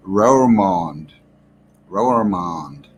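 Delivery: slow, drawn-out attempt at a Dutch accent; bad Dutch accent. Streamer attempting a Dutch town name, bad Dutch accent. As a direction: put on a clumsy Dutch accent, slipping into American. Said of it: "That's a really bad Dutch accent".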